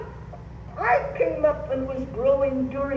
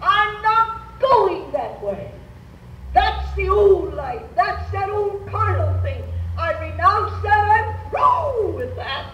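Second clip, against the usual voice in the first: firm refusal; 5 semitones higher than usual. Shown as a demonstration. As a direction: stand firm and refuse the old life. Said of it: "you say".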